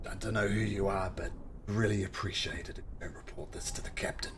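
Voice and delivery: quick, hushed plea; pleading hush. Acted. Varys asks the strangers not to tell the captain, hushed. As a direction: beg them quietly to keep it secret.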